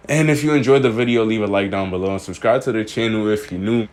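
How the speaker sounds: breathless, panting between phrases; out of breath. Real, not acted. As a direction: talk while short of breath. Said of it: "And I'm out of breath".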